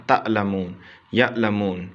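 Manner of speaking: تعلمون and یعلمون cut by a glottal catch after the first syllable; hamza jerk. Shown as a demonstration. Teacher shows students the jerked reading, hamza catch in تعلمون. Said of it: "ہم جھٹکے سے پڑھیں گے".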